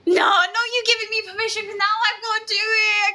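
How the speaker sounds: quick, high, half-laughing panic; flustered panic. Real, not acted. Streamer panicking after chat allows her to cuss. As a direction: rush it out, caught off guard. Panicked at being given permission.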